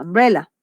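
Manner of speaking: "Umbrella" opened with an "ah" vowel; initial A sound. Shown as a demonstration. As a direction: say "Umbrella" as "ambrela". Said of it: "es una A".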